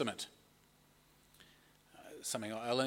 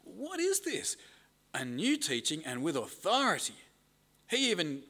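amazed; 3 semitones higher than usual. Acted. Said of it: "amazed that they asked".

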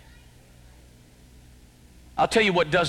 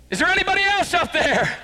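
the guy asking; 12 semitones higher, faster than usual. Retold or imitated. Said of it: "The guy said".

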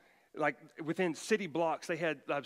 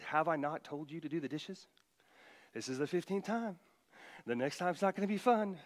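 sarcastic parent. Retold or imitated. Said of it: "There's a bit of sarcasm in here".

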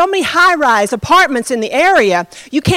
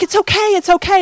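lightly soothing, higher voice; retold reassurance; 6 semitones higher than usual. Preacher comforting a weeping man, retold reassurance. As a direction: comfort him in quick, higher repeats.

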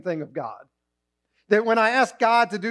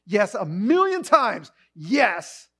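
joyful yes; 3 semitones higher, 3 dB louder, much slower than usual. Retold or imitated. God joyfully answering this prayer. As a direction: relish each yes. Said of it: "he's gonna say".

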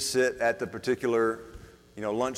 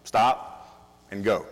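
slow spelled-out rule; 4 dB louder, much slower than usual. Shown as a demonstration. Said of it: "there's really supposed to be only, like, two rules".

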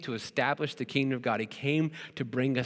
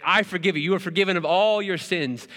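louder, raised mock pronouncement over the crowd; mock grand absolution; 5 semitones higher, 4 dB louder than usual. Pastor mocking a fake healer absolving the crowd, grand and loud. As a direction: ham up a showy faith healer forgiving everyone. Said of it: "wave my hands over this crowd and say".

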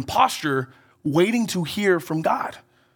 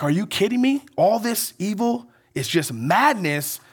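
mild disbelief. Retold or imitated.

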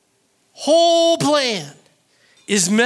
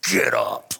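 very low-pitched command in a changed voice; low stern order; 12 semitones lower than usual. Acted. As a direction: growl the order as God. Repeats God's low gritted order.

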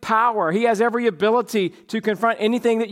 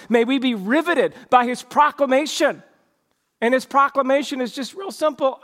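rising earnest exhortation, a little higher; preaching; 3 semitones higher than usual. Acted. Preacher urging his church, earnest and building. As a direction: urge the congregation on.

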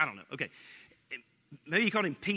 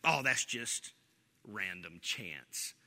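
mock dismissive; 10 semitones lower, 5 dB quieter, slower than usual. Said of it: "and go".

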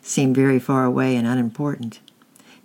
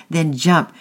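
loud, higher shouted order; 4 semitones higher, 6 dB louder than usual. A narrator's reading. Angry man shouts at boys to jump from boat. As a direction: shout it as a command. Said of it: "shouted the angry man".

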